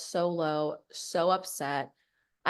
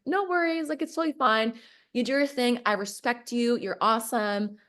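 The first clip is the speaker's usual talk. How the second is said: higher, overly upbeat forced cheer; fake breezy; 6 semitones higher, 3 dB louder than usual. Retelling her reply to the leader, forced breezy cheer. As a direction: sound totally fine when you're not. She plays it cool to him.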